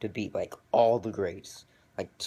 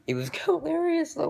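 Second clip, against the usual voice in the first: laughs it out, voice jumping way up and louder; real laughter bursting through the word; laughing; 5 dB louder than usual. Real, not acted. Telling the viewer about the funny brawl, laughing.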